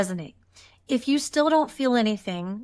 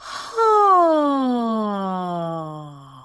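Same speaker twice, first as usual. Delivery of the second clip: long, louder open-throat sigh sliding down; yawning sigh, jaw down; 4 dB louder than usual. Shown as a demonstration. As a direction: let the sigh fall with the jaw pulled down. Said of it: "force your jaw down like this".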